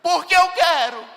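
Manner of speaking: put-on high, loud, stubborn child's retort; a little girl snapping back at her mother; defiant child. The daughter defiantly answering her mother, high and loud. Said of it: "Aí ela disse".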